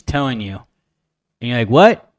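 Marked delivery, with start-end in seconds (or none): 1.7-2.1 loud, high, startled "What?"; confused what. Retold or imitated. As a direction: blurt it out, puzzled and loud. Confused customer at the mask shield.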